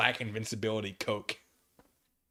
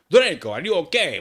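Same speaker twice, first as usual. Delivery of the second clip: gloomy goth voice, louder and higher; gothic voice; 6 semitones higher, 11 dB louder than usual. Acted. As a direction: call out in a dark gothic voice. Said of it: "I asked in a gothic voice".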